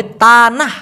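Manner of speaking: তানাহ begun with a soft dental t; soft Malay T. Shown as a demonstration. Teacher showing how Malays say the T, soft t in তানাহ. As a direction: say তানাহ slowly with ত, not an English T. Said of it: "ওরা ত উচ্চারণ করে".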